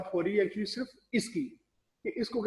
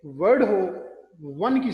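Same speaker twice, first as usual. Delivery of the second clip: said much louder for emphasis; emphatic; 7 dB louder than usual. Real, not acted. Teacher contrasting letter and word, much louder. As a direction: punch it out loud. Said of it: "letter हो तो ए".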